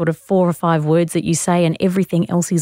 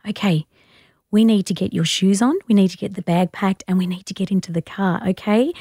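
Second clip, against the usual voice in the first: put-on gentle to child. Shown as a demonstration. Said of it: "hold their hands really gently and say".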